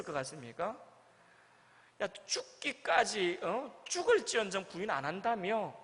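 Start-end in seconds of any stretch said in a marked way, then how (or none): 2.0-5.7 mock reproach. 비꼬는 예수님 상상.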